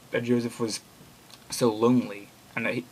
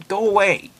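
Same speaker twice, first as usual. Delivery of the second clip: higher, louder, strained begging; desperate plea; 8 semitones higher, 7 dB louder, slower than usual. Acted. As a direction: push him away, terrified of yourself. Killer pleads.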